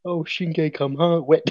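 comic impression collapsing towards laughter; Richmond's voice. Answering co-host's "where are you moving to", in character. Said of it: "but in Richmond's voice".

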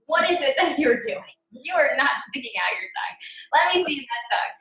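playfully bossy scolding; bossy teacher. Retold or imitated. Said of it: "that's how I talk to them".

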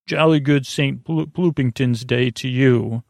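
light imitation of an English accent; half-committed stagey English accent; mock English accent. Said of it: "in this English accent".

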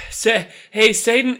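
high, loud hail; breathless subdemon. Acted. A third demon hails Satan, high and loud. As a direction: call the boss in a rush.

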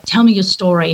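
a light attempt at Australian; hint of an Australian accent. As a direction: lightly imitate an Australian dad. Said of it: "that was my Australian accent".

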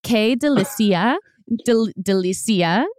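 slow, hesitant try at "Delicia"; tentative attempt at saying "Delicia"; careful pronunciation attempt. Shown as a demonstration. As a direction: sound out "Delicia" slowly as an unfamiliar Spanish word. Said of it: "I cannot pronounce anything".

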